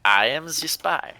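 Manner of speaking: slow, lightly voiced spy impression; a hint of a brooding secret agent. Shown as a demonstration. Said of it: "Godfather, you gotta give us your best spy impression".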